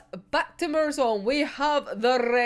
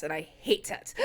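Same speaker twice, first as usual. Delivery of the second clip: a wobbly laugh-cry, much softer; half laughing, half crying; 8 semitones lower, 8 dB quieter than usual. Real, not acted. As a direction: laugh through the hurt, quietly. Repeats it, softer, on a sad beat.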